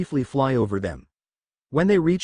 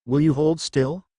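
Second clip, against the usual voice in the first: shouted; 2 semitones higher than usual. A narrator's reading. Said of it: "a soldier shouted".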